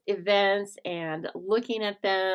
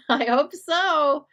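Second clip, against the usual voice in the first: high, loud, slow laughing reply; 8 semitones higher, 8 dB louder, much slower than usual. Real, not acted. Host laughing as she asks viewers about the printable list. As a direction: laugh through the words. Laughs at her own question.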